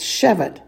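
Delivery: "shevet" with the accent on "she"; SHE-vet, second syllable light; stress on first syllable. Shown as a demonstration. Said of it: "it falls on the first".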